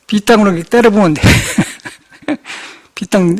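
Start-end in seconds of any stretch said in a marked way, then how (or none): 1.3-1.9 short breathy chuckle; real chuckle. Real, not acted. Monk recalling his dialect slip in a sermon, chuckling. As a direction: chuckle at your own wording.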